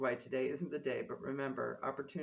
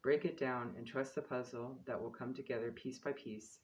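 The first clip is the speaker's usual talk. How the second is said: reading a quote aloud. Acted. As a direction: read it like a solemn quote. Reads the card's quote aloud.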